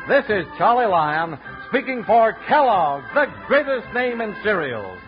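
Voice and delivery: booming radio sign-off; old radio announcer. Acted. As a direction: announce it like a fifties radio host. Closing announcer read.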